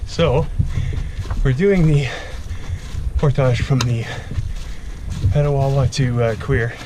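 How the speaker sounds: panting between words after a steep climb; breathless, gasping for air; out of breath. Real, not acted. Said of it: "Sorry I'm out of breath".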